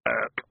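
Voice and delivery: croak. A narrator's reading. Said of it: "he ended up saying".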